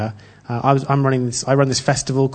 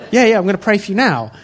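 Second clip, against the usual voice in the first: laughing; 7 semitones higher, 4 dB louder, faster than usual. Retold or imitated. Answering Dave's surprise.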